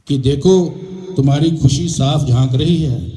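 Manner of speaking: measured verse delivery with pauses between phrases; comic poem recitation. Acted. Poet tells friends how he spent Holi, reciting comic verse. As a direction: recite it to a crowd, line by line. अपनी आप बीती सुनाता हूँ.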